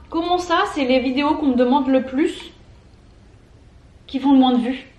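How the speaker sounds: talking with mouth full; words round a mouthful of noodles. Real, not acted. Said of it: "je peux pas parler la bouche pleine".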